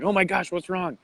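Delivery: high-pitched imitation of a worried mom; mock alarmed mother. Mom hears her son crying on the phone, imitated alarm. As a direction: jump high, as if suddenly concerned.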